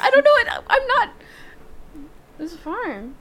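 high giggling words; laughing. Real, not acted. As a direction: squeal it through laughter. Giggling after teasing.

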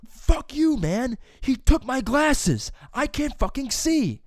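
high, loud acted-out shouting; furious outburst. Student standing up to yell at teacher, furious. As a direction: yell it in outraged protest, pitch way up. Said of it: "I stood up, dude. I go".

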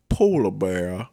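put-on silly figurine voice, r's dropped; mock figurine voice with softened r's; polar bear catchphrase. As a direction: say it as a daft catchphrase, drawn out. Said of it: "holds up and just goes".

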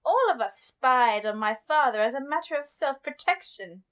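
lightly put-on posh narration; a hint of a posh lady reading aloud; posh woman. Host reading the princess's account, light mock-posh woman. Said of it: "reading it as a posh woman".

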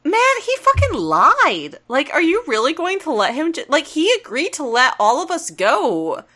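rally them against the liar; Jim pleading. Retold or imitated. Jim urges the others against Megatron, indignant. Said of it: "Jim's like".

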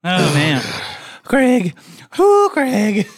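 high loud strained cry; loud pained yelp. Real, not acted. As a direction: yelp from the chili burn. Reacting to spicy heat.

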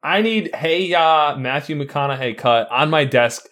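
lightly voiced bossy demand; angry boss. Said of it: "I couldn't be a boss if I tried".

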